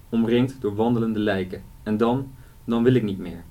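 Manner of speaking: measured reading of a novel passage; story reading. Acted. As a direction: read it like a storyteller, steady and clear. Author reads novel passage aloud.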